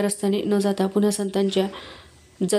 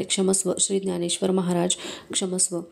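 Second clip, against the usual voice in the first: humble pleading. Acted. Ashamed scholar begs Dnyaneshwar's forgiveness, meek plea. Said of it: "दीनस्वरात ते म्हणाले".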